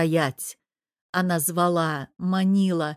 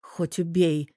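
usual speaking voice

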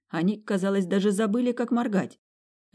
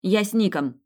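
louder called-back answer; shouted reply; 4 semitones higher, 5 dB louder than usual. Acted. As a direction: toss the answer back over your shoulder, loud. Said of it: "крикнула в ответ".

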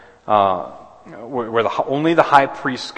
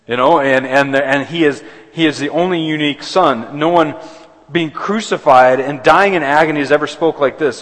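louder and higher, driving on through the sentence; fervent preaching; 5 semitones higher, 7 dB louder than usual. Real, not acted. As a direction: keep the fire going.

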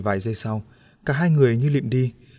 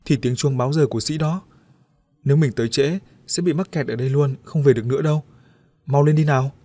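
hasty explaining; 3 semitones higher, 3 dB louder than usual. Acted. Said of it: "hấp tấp giải thích".

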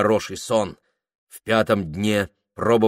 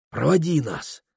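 pleading; 5 semitones higher than usual. Acted. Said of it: "нежно заговорил Прохор".

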